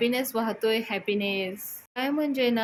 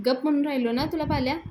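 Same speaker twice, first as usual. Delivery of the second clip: annoyed snap; 5 semitones higher, 3 dB louder, faster than usual. Retold or imitated. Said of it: "यशा देखील चिडतो आणि म्हणतो".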